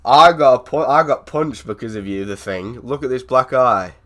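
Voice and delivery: loud hammed-up angry rant; mock shouting. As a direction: yell it at him, half joking. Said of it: "I think we should shout at him now".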